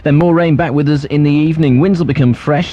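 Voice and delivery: low-pitched radio weather bulletin; weather forecast read. Real, not acted.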